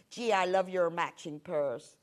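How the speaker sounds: a light mock Canadian accent, friendly; imitating Canadian accent. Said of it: "That was a great accent, wasn't it?".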